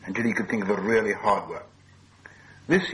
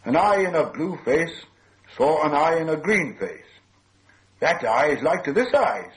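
higher, measured lilting riddle; riddle recital; 6 semitones higher, 4 dB louder than usual. A narrator's reading. Bilbo puzzling the creature with a riddle, lilting. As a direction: recite it in swooping, singsong phrases.

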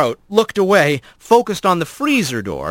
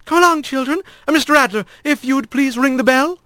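higher, brisk teacherly voice; brisk superintendent; 10 semitones higher than usual. A narrator's reading. Superintendent calling the kits out of the kitchen, brisk. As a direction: herd the children out.

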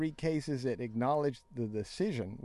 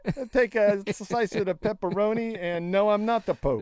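higher, louder hammed-up pizzeria customer; mock pope ordering pizza; 8 semitones higher, 6 dB louder than usual. Pope orders pepperoni slice, loud hammed-up denial. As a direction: play the pope trying to pass as a regular guy.

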